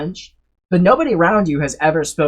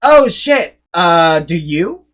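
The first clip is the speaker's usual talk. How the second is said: caught-out panic; 8 dB louder, slower than usual. Acted. Fake French speaker confronted by a real one, caught-out panic. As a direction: play a bluffer panicking, then stalling slowly.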